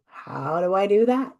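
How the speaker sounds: a loud, mock-baffled question from the audience; puzzled listener. Speaker voicing an imagined listener asking how, loud and mock-baffled. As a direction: voice the listener's doubt with a bit of a hammed-up puzzlement. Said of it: "And you go".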